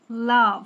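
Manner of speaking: "লাভ" said loud and strong; loud stressed "লাভ". Shown as a demonstration. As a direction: punch the word "লাভ". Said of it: "লাভেরও হচ্ছে বেশি".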